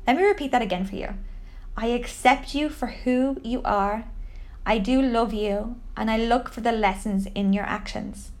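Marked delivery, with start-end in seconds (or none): 1.8-8.3 measured, soft-edged affirmation; gentle, deliberate mantra; guided affirmation. Shown as a demonstration. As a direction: say it calmly for someone to repeat after you. Repeats the affirmation for the listener.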